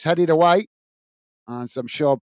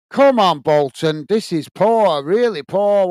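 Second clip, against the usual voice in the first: a loud burst of frustration at the team; exasperated shout; 3 dB louder, slower than usual. Real, not acted. Fan watching his team boot it out of play, shouting in frustration. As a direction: call out to Bolton, fed up and loud.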